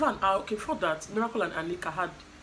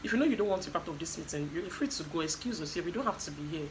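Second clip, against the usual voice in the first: calm, even retelling of a dismissal; composed and unruffled. Retold or imitated. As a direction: excuse them calmly, without any heat. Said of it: "She was calm".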